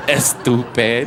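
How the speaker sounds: "Estupid" drawn out low and slow, Spanish e before s; mock Latino insult, slow and low; slow, low "Estupid" in a Latino accent. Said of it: "Latinos make fun of Asians".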